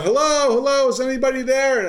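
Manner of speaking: loud, high calling out for help. Retold or imitated. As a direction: call out into an empty store. Calling out alone in dressing room.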